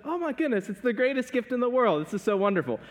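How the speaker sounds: high, delighted gushing over a small gift; gushing wife. Retold or imitated. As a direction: imitate a wife thrilled by any little gift. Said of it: "And she'll be like".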